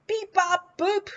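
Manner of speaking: beeping robot noises. Pretend. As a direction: do little robot beeps. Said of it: "cool robots".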